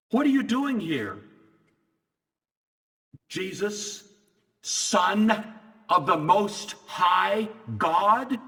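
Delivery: high, then slow and drawn-out demonic question; a demon recoiling as it names him; demon naming Jesus. Retold or imitated. Demon addressing Jesus on the beach, slow and ominous.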